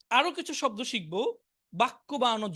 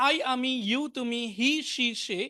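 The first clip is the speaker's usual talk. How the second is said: quick memorizing run. Shown as a demonstration. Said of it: "মুখস্থ করে ফেলতে পারেন এভাবে".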